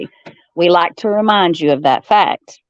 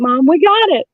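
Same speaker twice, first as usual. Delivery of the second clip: mock triumphant; 9 semitones higher than usual. Telling mom the chicken salad was found, hammed-up triumph. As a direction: sing it out like a big victory. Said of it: "And I'm like".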